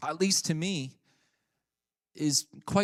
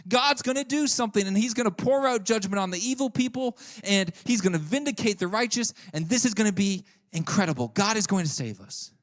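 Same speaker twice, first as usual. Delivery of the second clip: excited; 5 semitones higher than usual. Retold or imitated. Habakkuk thrilled that God finally answers, excited. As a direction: rattle off praise like prayers are finally answered. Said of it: "he might even get a little excited and say".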